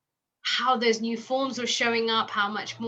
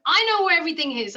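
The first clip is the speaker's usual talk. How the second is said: mock mum; 7 semitones higher, 6 dB louder, faster than usual. Mum's reply, retold.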